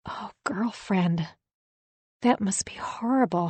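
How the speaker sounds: breathy, drawn-out sympathy; sympathetic. A narrator's reading. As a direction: console a close friend in near-whisper. Friend consoles narrator over police questioning.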